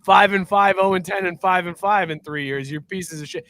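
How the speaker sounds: mock jeering classmate voice; imitating taunting classmates. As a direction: sneer it like a schoolyard taunt.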